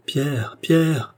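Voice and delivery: desperate call to a dead friend; shouting a name. Acted. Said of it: "je hurlais".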